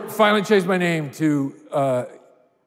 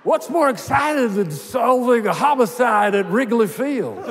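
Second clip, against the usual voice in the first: Harry Caray; 4 semitones higher than usual. Retold or imitated. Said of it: "it sounds exactly like it".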